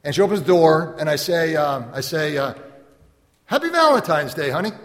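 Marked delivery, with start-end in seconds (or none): 3.4-4.7 bright, high Valentine's greeting to the wife; cheery greeting. Retold or imitated. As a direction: sing it out to surprise her at the door. Husband greets wife at door.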